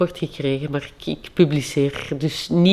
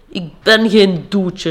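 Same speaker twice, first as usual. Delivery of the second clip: called out firmly; slower than usual. Acted. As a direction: plant your feet and declare it. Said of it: "riep hij tegen zijn vrouw".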